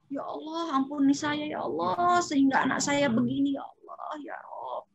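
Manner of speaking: pleading prayer fading to a whisper; a parent confessing to God, pleading then whispering; remorseful prayer. Pretend. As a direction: beg forgiveness, letting the end go breathless. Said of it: "adanya penyesalan".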